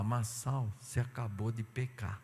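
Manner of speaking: quiet rebuke. Retold or imitated. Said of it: "O Espírito Santo já vem e fala".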